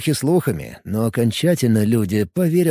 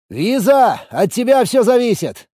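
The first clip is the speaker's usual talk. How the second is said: higher, louder urgent call; calling out to Visa; shout; 11 semitones higher, 4 dB louder than usual. A narrator's reading. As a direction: yell it to the pet. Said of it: "крикнул я".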